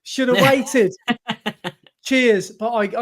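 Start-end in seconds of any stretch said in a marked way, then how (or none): 2.0-2.5 short sarcastic sign-off; mildly sarcastic thanks. Acted. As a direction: read the thanks as if unimpressed. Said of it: "cheers is a bit of a sarcastic one".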